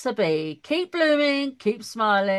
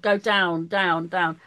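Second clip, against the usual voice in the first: volume going down; 4 semitones lower, slower than usual. Shown as a demonstration. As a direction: voice stepping lower. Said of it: "like in the volume".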